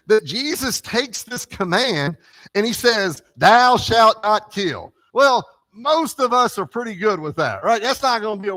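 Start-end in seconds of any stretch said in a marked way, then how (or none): 3.4-4.9 loud, slow, weighty proclamation; thundering commandment. Shown as a demonstration. Preacher to congregation, proclaiming the commandment loud and slow. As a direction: boom out the old commandment slowly.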